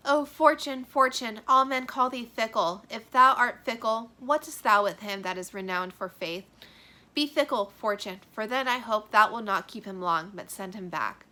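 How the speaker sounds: loud, aching plea to fortune; dramatic grieving reading; heartbroken lament. Acted. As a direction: beg fate to return him.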